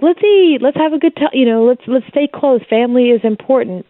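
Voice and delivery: high, bright-hearted invitation to eat; cheerful mock family call; upbeat family voice. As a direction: chirp it like a welcoming relative. Voicing family's welcoming attitude.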